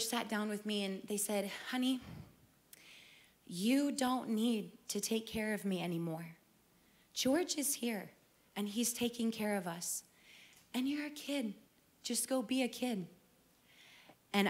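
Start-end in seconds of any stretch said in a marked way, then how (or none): 1.7-13.1 soft, tender reassurance; gentle mom. Retold or imitated. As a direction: softly tell her she can rest. Mom gently telling her daughter.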